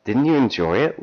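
high, incredulous question; disbelief. A narrator's reading. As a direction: ask it as a baffled lover, acted. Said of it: "Lisa asked in disbelief".

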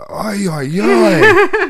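rising "Ay, ay, ay" into a laughing squeal; shocked "ay ay ay". Retold or imitated. Babysitter hearing the cursing toy, rising shocked squeal. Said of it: "she goes".

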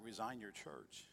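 slow hushed voice of God. Retold or imitated. Voice of God retold.

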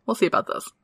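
hushed, ominous; menacing whisper. Acted. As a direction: whisper it like a threat. Teasing threat, whispered.

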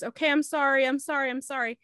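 imitating someone begging to appease; retold pleading apology. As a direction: act out her pleading lightly. Retelling her frightened apology.

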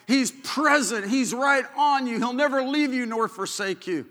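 rousing pulpit call; preaching at full force. Acted. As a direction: proclaim it over the congregation.

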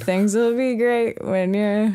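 slow, sung Northern Irish; Northern Irish accent. Acted. Guest sings a band's cover of a song, Northern Irish accent. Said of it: "but in a Northern Irish accent".

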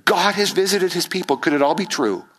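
rising, hushed awe; awed wonder. Retold or imitated. Crowd wondering about the Messiah, rising awe that fades. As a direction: wonder if it could be true. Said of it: "they're saying".

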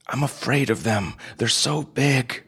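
small and afraid; scared. Acted. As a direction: nephew admitting fear, voice rising high. Frightened nephew confesses.

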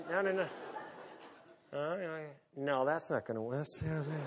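mumbling to himself. Retold or imitated. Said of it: "I can hear him mumbling to himself".

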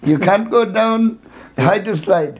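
put-on high Indian accent, repeating no no no. Security guard refusing Julio the slide, in an Indian accent. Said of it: "he's an Indian man".

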